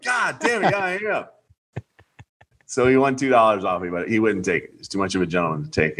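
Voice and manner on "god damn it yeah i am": mock self-frustration. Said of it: "I'm like".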